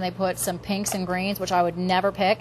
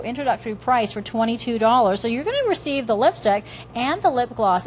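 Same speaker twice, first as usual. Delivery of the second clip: home shopping host. Acted. Host introduces new product launch.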